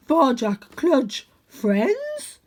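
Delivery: tentative but thrilled; eager dog. A narrator's reading. Voices Cludge the big dog.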